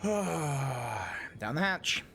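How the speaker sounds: sigh, then candy in mouth; talking around a sour candy; eating sour candy. Real, not acted. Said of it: "I'm gonna have a fucking sour candy".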